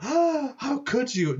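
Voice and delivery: high, slow, hammed-up hurt cry; mock outrage. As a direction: play the wronged victim, overdone.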